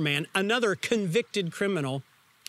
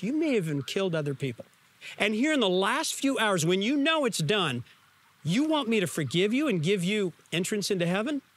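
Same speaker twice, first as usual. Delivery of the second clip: incredulous mock rebuke; 2 semitones higher than usual. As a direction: scoff at the last-minute plea. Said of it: "Jesus could have turned to him and said".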